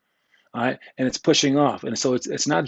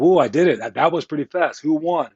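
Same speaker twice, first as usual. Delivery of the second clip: mock self-pleased kid; 2 semitones higher than usual. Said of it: "and then go".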